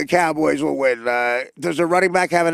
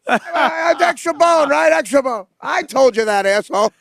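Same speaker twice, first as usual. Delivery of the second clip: much higher, smug know-it-all voice; Jimmy the Greek; 8 semitones higher, slower than usual. Retold or imitated. Mocking Jimmy the Greek bragging he called it, higher. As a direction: crow it like the bar know-it-all. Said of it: "Jimmy the Greek like that".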